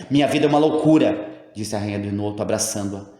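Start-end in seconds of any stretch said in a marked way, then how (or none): 0.1-1.3 louder, higher anguished outburst; despairing outburst. A narrator's reading. Queen confesses her madness to old woman, anguished louder outburst. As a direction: pour out the anguish.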